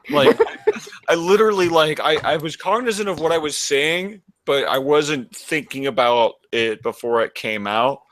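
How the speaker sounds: slurred, thick-tongued speech; drunk voice. Shown as a demonstration. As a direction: talk like you've had ten beers. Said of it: "why does your mouth sound like you're really drunk".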